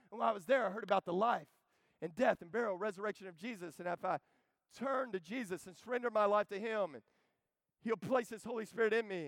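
a light hint of a thrilled new believer; excited coworker. Coworker bursting with news at the cubicle, excited. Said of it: "And he goes".

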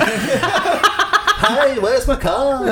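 put-on Seinfeld in a Liverpool accent; high, laughing Liverpool Seinfeld. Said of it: "Jerry Seinfeld with a Liverpool accent".

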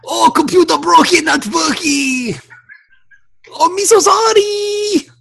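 hammed-up mock Asian yelling; mock Asian accent shout. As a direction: yell at the computer in crude mock Asian accent. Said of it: "horrible Oriental accent".

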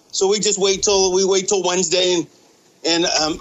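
out of breath. Real, not acted. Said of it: "I'm sorry, I'm out of breath. I'm doing cardio".

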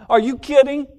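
mock disbelief. Preacher voicing self-love, scoffing in disbelief. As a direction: scoff at the very idea. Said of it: "Self-love says".

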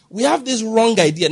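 emphasise the word "wrong"; stress on WRONG. Real, not acted. Preacher correcting a mistaken idea, with stress on "wrong". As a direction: lean firmly on "wrong" to mark it out. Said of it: "I'm emphasizing the word wrong".

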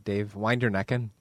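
put-on slow, teasing Northern Irish accent; goofy Northern Irish. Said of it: "kinda being goofy, they, they have this fra-, phrase".

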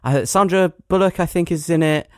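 dismissive, then searching for a name; feigned forgetfulness. Acted. Friend ignoring the obvious answer, feigned forgetfulness. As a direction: brush off the answer and keep groping. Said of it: "as if you can't remember what the film is".

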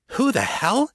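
sharp, high shocked cry; startled outburst. Acted. Kate startled by the woman watching them, high shocked cry. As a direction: jump at the intruder's voice.

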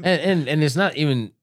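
high, loud laughing words; laughing while talking. Real, not acted. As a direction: talk through a laugh.

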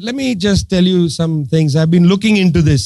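low-pitched, calmly retold reply. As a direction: quote him with unhurried composure. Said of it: "he said very calmly".

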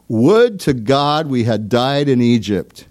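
slow, drawn-out complaining lament; a touch of whining despair from the wilderness; mock lament. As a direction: stretch it out like a grumbling Israelite. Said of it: "their famous last words were".

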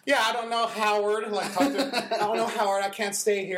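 put-on a frantic old wife pleading with Howard, loud and high; panicky old lady. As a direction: play a flustered old lady begging her husband.

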